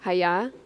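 "Hiya" with a rising karate yell; karate cry. Shown as a demonstration. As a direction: say "Hiya" like a martial arts cry. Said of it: "what does someone say before they karate chop you?".

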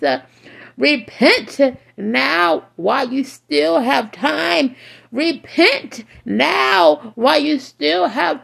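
fiery, rising street sermon; doomsday street preacher. Acted. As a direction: preach it hard, warning the wicked. Preaching at full force.

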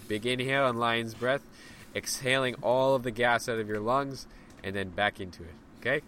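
lively instructor cueing the round; guided breathwork. Acted. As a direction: call the next round in. Cues the second round.

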